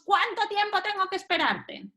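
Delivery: high-pitched impatient nagging; impatient complaint. Acted. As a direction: act out exasperated waiting. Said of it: "cuando decimos".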